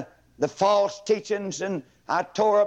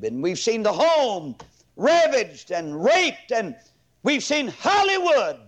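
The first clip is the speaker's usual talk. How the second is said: building sermon. Acted. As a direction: preach it up to a fever pitch. Preaching builds to climax.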